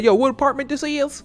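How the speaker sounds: imitated confrontation. Imitating the men arriving at the neighbor's apartment, mock confrontational. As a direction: call it out like someone looking for a door.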